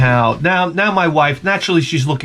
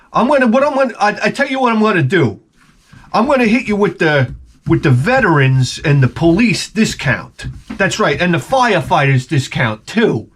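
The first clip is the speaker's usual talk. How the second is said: Long Island salesman; 3 semitones higher than usual. Retold or imitated. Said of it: "hit me with the Long Island accent".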